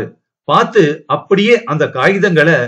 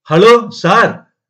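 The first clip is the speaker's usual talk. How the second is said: slow, higher-pitched call; drawn-out hail, pitched up to carry; shouted greeting; 6 semitones higher, 4 dB louder, much slower than usual. A narrator's reading. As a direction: holler hello from across the room. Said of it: "Vasanth இங்கிருந்தே இறைந்தான்".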